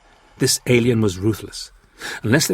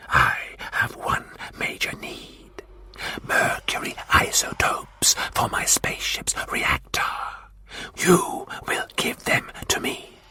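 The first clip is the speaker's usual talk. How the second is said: whispering Martian warlord; 8 semitones lower, 6 dB quieter than usual. Acted. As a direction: breathe the demand like a cold threat.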